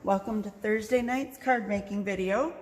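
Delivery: plosive pops on the P's; mic popping on P's; popping p sounds. Real, not acted. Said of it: "My P's popping up a little".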